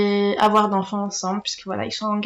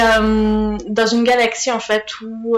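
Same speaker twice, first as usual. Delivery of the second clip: usual speaking voice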